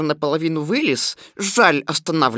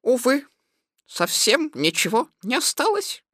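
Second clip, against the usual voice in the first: higher, regretful rabbit voice; regretful sigh; 4 semitones higher, 4 dB quieter than usual. Acted. Rabbit telling his guest food is gone, sighing. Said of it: "и со вздохом сказал".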